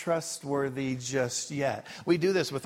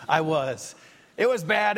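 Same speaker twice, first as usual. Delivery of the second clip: emphatic confession; 2 semitones higher, 5 dB louder than usual. Real, not acted. Admitting bad finances.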